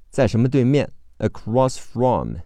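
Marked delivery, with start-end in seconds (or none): 1.8-2.4 sounded-out pronunciation. Shown as a demonstration. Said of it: "A是字母A，K是C".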